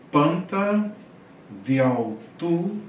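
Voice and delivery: Panta said high, diautu with a rising tune; teacher sounds out Greek slowly; modelling Greek words. Shown as a demonstration. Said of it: "O que que você vai observar?". (professor pronunciando o grego)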